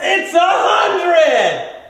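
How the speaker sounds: slow, loud triumphant price reveal; home shopping host. Acted. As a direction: announce it like a TV salesman.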